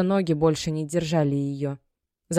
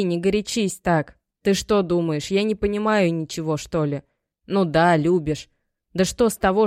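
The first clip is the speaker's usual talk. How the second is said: pleading mother; 2 semitones higher, 3 dB louder than usual. Acted. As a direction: coax her, worried but firm. Мать уговаривает дочь. (мать уговаривает дочь, выше)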